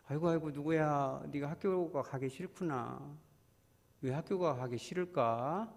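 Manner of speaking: put-on a caring mother coaxing her child; gentle parent. Shown as a demonstration. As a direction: ask it gently and slowly. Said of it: "한번 물어봐 주는 거예요".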